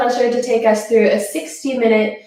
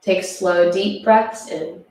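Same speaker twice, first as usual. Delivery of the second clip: guided relaxation. Acted. Guides breathing in child's pose.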